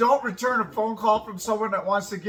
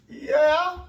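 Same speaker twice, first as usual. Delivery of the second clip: emphatic yeah; 8 semitones higher, 5 dB louder than usual. Real, not acted. Emphatic answer amid laughter.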